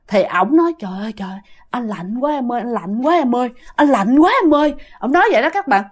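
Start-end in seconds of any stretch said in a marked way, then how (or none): 0.8-4.7 shivering complaint. Retold or imitated. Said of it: "mà run rì nè". (giả giọng run rẩy than lạnh, to dần)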